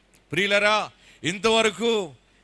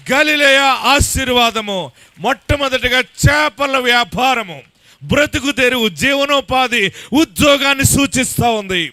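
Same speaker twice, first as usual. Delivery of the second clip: full-force preaching; 3 dB louder than usual. Acted. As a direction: build the preaching to a shout. Preacher builds to a climax.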